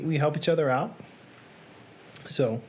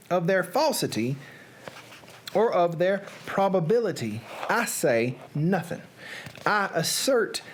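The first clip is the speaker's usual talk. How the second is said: Southern storyteller working through long words; Southern accent. Pretend. Reader stumbling through Poe's difficult prose, Southern accent. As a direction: narrate in a put-on Southern accent. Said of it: "in a Southern accent".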